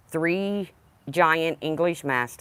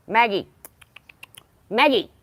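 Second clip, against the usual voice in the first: calling out; 7 semitones higher, 4 dB louder than usual. Real, not acted. Calling dog across yard.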